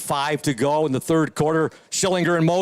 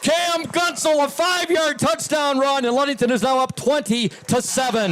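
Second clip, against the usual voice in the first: excited; 9 semitones higher than usual. Real, not acted. Celebrating touchdown.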